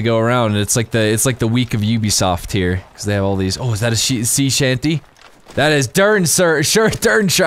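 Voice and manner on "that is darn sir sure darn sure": giggling so hard the words trip; laughing through it. Real, not acted. Gamer cracking up at the sea shanty, laughing. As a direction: laugh over a flubbed phrase. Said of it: "I can't even talk right now".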